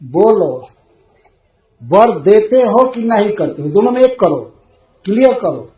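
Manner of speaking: loud, pushy demand for an answer; demanding Kaikeyi. Acted. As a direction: press the king to decide now. (ज़िद्दी माँग)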